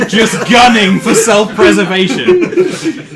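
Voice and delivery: talking through laughter; cracking up mid-sentence; laughing. Real, not acted. GM describing fleeing character.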